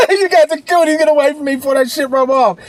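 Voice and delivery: high, loud comic recoil; hammed-up cry of disgust; mock-disgusted yell. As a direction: playfully shoo away someone contagious. Mock recoil from broke cooties.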